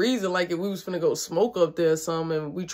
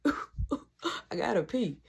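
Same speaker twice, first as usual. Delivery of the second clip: slow, softer, half-asleep laughing drawl; sleepy drawn-out; 6 dB quieter, much slower than usual. Retold or imitated. Waking at night needing the bathroom, slow sleepy voice. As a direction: stretch it out like you just woke up. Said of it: "I'm, like, half asleep".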